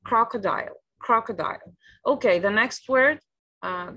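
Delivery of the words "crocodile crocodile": "Crocodile" stressed on CROC, falling at the end; teacher's demo of "crocodile", first syllable strongest, pitch dropping after; native-style pronunciation. Shown as a demonstration. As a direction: echo the native model of "crocodile" clearly. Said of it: "this is how native speakers say".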